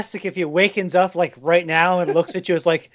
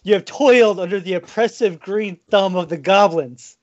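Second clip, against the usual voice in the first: rallying speech. Acted. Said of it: "set you up to make your speech".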